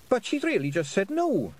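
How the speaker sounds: high, quick blurt; a pixie protesting too loudly; burst out. Acted. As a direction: blurt out the obvious. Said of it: "Fionn burst out".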